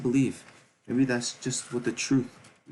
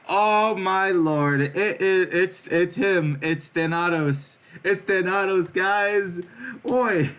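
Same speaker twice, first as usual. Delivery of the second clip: high, loud, stretched-out gasp of delight; excited shriek; 9 semitones higher, 5 dB louder, much slower than usual. Real, not acted. Reader shocked to see Thanatos, excited shriek. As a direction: squeal it out like you just saw your favourite. Reader spots favourite character.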